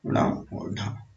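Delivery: very slow, breathy ण और ढा; teacher slowly showing the sounds; slow demo. Shown as a demonstration. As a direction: draw out ण and ढा for the class. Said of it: "ताड़न जात व्यंजन होते हैं".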